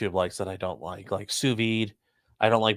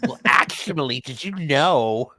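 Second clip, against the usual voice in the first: retainer voice; 3 semitones higher, slower than usual. Acted. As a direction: talk through a dental retainer, slowly. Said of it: "that's just my retainer voice".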